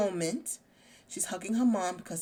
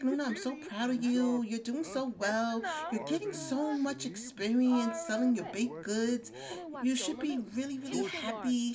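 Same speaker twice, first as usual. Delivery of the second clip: lightly acted gushing mom, pitched up; proud, excited mom; 4 semitones higher than usual. Mom praising Luna over her bakery earnings, mildly excited. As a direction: play a happy mother praising her daughter. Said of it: "her mom is so excited and so happy for her".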